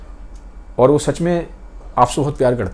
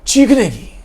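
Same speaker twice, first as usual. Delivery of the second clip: mock scream; 8 semitones higher, 3 dB louder, slower than usual. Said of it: "उसके चीखने की आवाज़ आती है".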